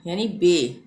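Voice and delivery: बे said short with ए, not बै; बे clipped like the e in bed. Shown as a demonstration. Teacher demonstrating the ए sound for B-E words, precise. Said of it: "बै नहीं".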